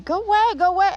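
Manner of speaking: high shoo. Real, not acted. Shooing a bee away.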